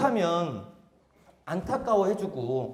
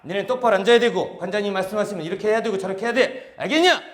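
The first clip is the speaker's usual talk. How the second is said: korean military style; 4 dB louder than usual. Acted. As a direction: drill instructor barking orders. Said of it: "군대 조교 말투로서".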